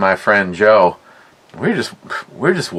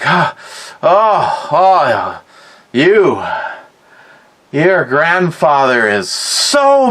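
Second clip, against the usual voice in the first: a lightly raised, anxious grandma voice; worried grandma; 4 semitones higher than usual. Retold or imitated. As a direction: pass on the bad news like a fretting grandmother. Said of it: "my grandma was like".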